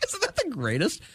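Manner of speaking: high, laughing delight. Real, not acted. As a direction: still laughing as you say it. Laughing after the bit.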